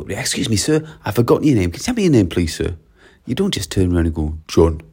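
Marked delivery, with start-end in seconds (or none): 0.0-2.8 courteous ask, pitch lifting midway; polite request. Acted. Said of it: "being really polite". 4.5-4.8 lower, one-word reply with no courtesy; rude bare answer. Shown as a demonstration. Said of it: "comes across as a bit rude".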